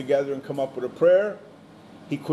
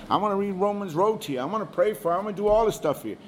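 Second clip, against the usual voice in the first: higher-pitched mock eagerness; eager pleading; 5 semitones higher, faster than usual. Believer urging an unsaved friend, mock eager pleading. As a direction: imitate someone pressing to help.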